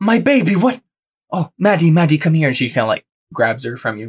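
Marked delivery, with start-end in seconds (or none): 0.0-2.5 high-pitched crying-out call. The mother, Maria, sees her hurt daughter Maddie: Maria crying out. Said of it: "cries out and says".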